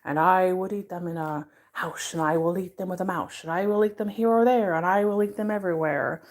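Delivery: lightly voiced presidential impression, quick run; Nixon. Reading Green Eggs and Ham as the president, light quick Nixon impression. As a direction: rattle off a storybook rhyme in a light politician's voice. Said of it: "first time I really did his voice".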